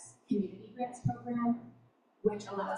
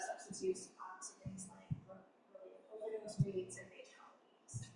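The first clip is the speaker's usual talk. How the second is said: muffled, as if through a hand; 12 dB quieter than usual. Real, not acted. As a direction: voice muffled by a hand over the mouth. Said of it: "it's really muffled".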